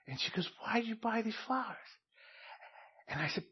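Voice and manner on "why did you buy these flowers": wife asking. Retold or imitated.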